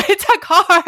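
laughing mock scold. Sister laughingly corrects Jacob about the Beetle, high-pitched. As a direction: scold him while cracking up. Repeats punchline.

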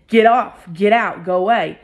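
retold angry yell. To the Uber driver at the door, a mild angry yell. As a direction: snap it out like losing your temper. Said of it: "I lost my temper".

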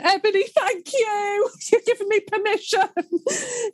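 choked-up, high and wavering between laughs; real tears welling up as she thanks her; teary, voice breaking. Real, not acted. Host thanking guest, voice breaking with tears. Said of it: "I'm so glad that you had a wobbly voice and a couple of tears".

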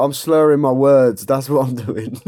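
talking through a laugh. Real, not acted. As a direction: laugh as you say it. Laughing while retelling.

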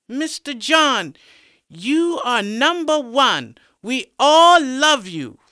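high, slow, sugary schoolgirl chorus voice; giddy schoolgirls. Acted. Giddy students adore their teacher John, high fawning chorus. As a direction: coo it like a fawning fan.

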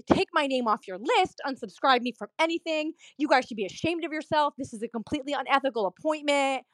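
indignant retold rant without full volume; mild mock yelling. Patient comes back in to cancel everything, mild mock yelling. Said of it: "he starts yelling".

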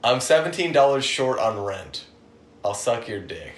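low, softened retelling of her murmur; imitated hushed proposition. Friend retelling woman's plea about rent, imitated hushed voice. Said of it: "she was kinda whispering".

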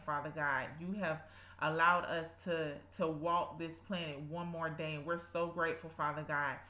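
earnest spoken prayer. Acted. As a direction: pray aloud with devotion. Leads a prayer.

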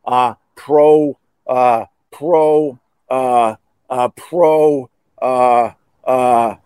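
halting, stuck on the first syllable; can't get past pro; stumbling on a name. Real, not acted. Trying to say the Russian's name, stuck. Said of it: "How do you say his name?".

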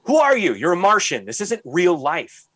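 mock outrage at a ridiculous character; incredulous outburst. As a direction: exclaim in disbelief at someone absurd. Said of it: "I'm like".

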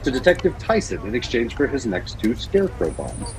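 dramatic story reading; story narration. Acted. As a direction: read it like an audio drama narrator. Reads Batman story aloud.

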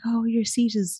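high, gentle retold welcome; gentle air stewardess. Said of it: "it's really gentle".

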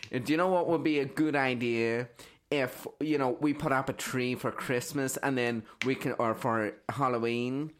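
badly faked American pitching a bright idea; bad American accent. Comic inventing an American's big idea, in a terrible American accent. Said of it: "That was the worst accent ever".

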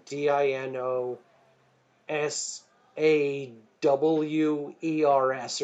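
slowly spelled letters, one by one; spelling it out. Shown as a demonstration. Author spelling dialect for kids: slow letter-by-letter spelling. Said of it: "it'll be like".

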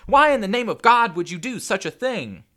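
anguished, high full shout; loud, horrified outrage; shouting in his face. A narrator's reading. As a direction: yell each word in disbelief. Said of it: "she shouted into his face".

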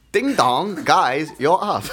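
badly faked Asian accent, sing-out announcement; fake Asian accent. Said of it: "white guy pretending to be Asian".

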